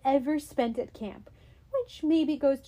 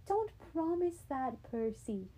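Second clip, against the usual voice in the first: trying to sound casual; 4 semitones higher, 6 dB quieter than usual. Acted. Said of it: "She tried to sound casual".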